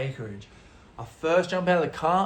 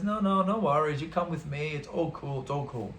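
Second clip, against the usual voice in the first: Luigi. Retold or imitated. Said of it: "He says".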